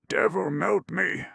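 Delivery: put-on high, stupid drawl of a drunk squire; drunken drawl. A narrator's reading. Lout at the table drawling his oath. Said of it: "he drawled".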